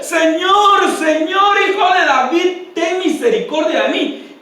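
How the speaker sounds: retold cry for mercy. Blind Bartimeo calls to passing Jesus, imitated crying out. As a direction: call out like a beggar pleading to be heard. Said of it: "empieza a gritar".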